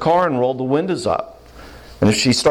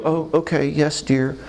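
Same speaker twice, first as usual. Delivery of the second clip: mock meek agreement; 4 semitones higher, 3 dB quieter than usual. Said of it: "I'm not gonna either go".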